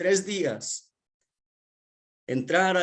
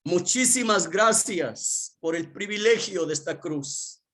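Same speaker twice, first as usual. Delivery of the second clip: grateful prayer; 4 semitones higher than usual. Retold or imitated. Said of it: "lo primero que hacía es decirle".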